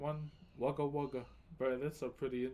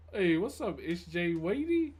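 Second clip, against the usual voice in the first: calling out; 4 semitones higher, 8 dB louder than usual. Real, not acted. Greeting a viewer on stream.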